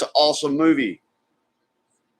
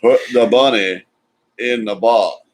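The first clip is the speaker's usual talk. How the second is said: put-on punchy Southern accent quote, a bit louder; lightly hammed Southern accent; mock Southern accent; 3 dB louder, slower than usual. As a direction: hit it like a bad Southern movie line. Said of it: "worst Southern accent ever been attempted".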